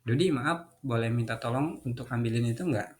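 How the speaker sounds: soft, polite ask; gentle polite request to a tired helper. Shown as a demonstration. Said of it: "Kalau gini mungkin".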